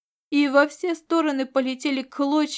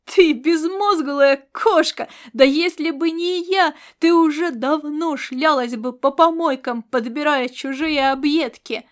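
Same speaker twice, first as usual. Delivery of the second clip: furious outburst; 3 semitones higher, 7 dB louder than usual. Acted. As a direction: spit the insult out, slowing on the name-calling. Laszlo rages at the cat.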